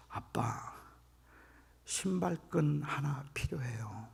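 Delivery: timid, soft and slow request; cautious. Retold or imitated. Child cautiously asking his father for a shoelace, timid whisper. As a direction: ask carefully, barely voiced. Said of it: "조심스럽게".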